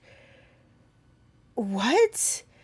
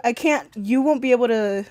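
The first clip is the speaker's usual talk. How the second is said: ordinary talk, nothing marked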